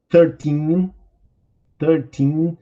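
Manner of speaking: put-on thirteen with the weight on teen, rising; stress on teen. Shown as a demonstration. Teacher modelling numbers for students, stress on teen. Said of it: "carregue no teen".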